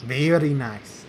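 slow put-on Russian accent; mock Russian accent. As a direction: say it slowly in a fake Russian accent. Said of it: "Russian accent you got".

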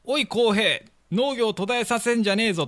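put-on lightly raspy old neighbor voice; a hint of a gruff old man; hoarse voice. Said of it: "しゃがれた声で". (軽くしゃがれた声で)

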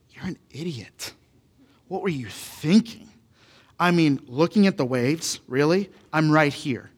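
understated exasperated rebuke; incredulous telling-off, lightly acted; mild scolding. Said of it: "Jesus has that voice".

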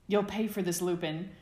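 wrestling friend shouting a playful threat; playful yell. Acted. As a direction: threaten him in fun, loudly. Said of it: "Sirius yelled".

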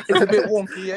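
laughing imitation of a British accent; mock British accent. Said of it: "I'm gonna start talking like that".

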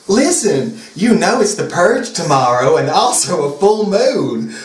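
Southern pack leader, dramatic. Acted.

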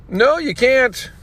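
mock Brett voice, drawn out; imitating Brett. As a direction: shut the guard down like a star. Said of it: "I can just hear Brett's voice saying it that exact way".

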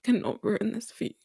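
tearful. Real, not acted. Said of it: "I don't know why I'm crying".

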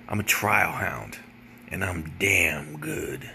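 a hint of a cocky trial hound; tough trial lawyer voice. Lawyer brags he is a trial hound, low and slow. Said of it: "his whole voice changed".

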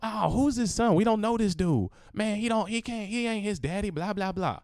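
high scoffing doubter voice; mocking critic. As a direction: sneer as a doubtful fan. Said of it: "You'd be like".

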